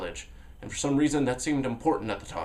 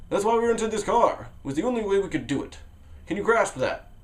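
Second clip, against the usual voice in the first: excited; 8 semitones higher than usual. Acted. Narrator rambling to hitchhiker.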